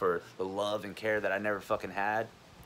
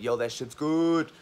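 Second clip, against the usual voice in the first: slow, higher, dazed drug-high voice; stoner voice; 6 semitones higher, 4 dB louder, slower than usual. Retold or imitated. Imitating a drug user enjoying a hit, slow and higher. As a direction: drawl it like you just got high.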